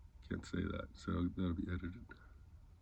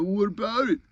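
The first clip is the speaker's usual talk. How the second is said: defiant retort; 8 semitones higher, 3 dB louder than usual. Retold or imitated. Imitates the man's defiant reply.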